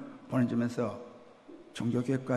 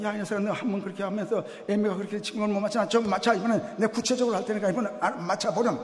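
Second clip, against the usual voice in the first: 조바심 난 엄마가 빠르게 다그치듯; 답답해서 재촉하는 엄마 말투; irritated mother; 6 semitones higher, faster than usual. Retold or imitated. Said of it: "이 엄마는 이번엔 좀 화가 났어". (아들을 다그치는 엄마, 빠르고 짜증 섞인)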